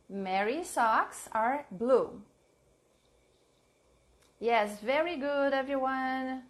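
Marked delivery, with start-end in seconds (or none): 0.1-2.2 slow dictation. Shown as a demonstration. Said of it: "let's see examples".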